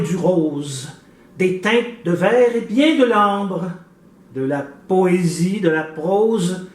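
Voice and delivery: slow, measured poetic reading with deliberate pauses; poem recitation. Acted. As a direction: declaim each phrase, letting key words ring out. Recites a poem to open interview.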